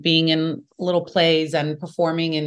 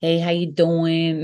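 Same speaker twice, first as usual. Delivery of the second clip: slow, hammed-up Brooklyn "how you doing"; mock New York Brooklyn greeting, drawn out slowly; Brooklyn accent; slower than usual. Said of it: "You can hear it in my voice".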